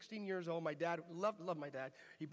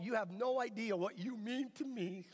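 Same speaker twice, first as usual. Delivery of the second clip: put-on worked-up teenage protest, louder in places; mock pleading; 3 semitones higher, 3 dB louder than usual. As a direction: plead with dad in mock disbelief. Acted teenage protest to his dad.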